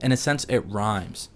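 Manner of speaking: usual speaking voice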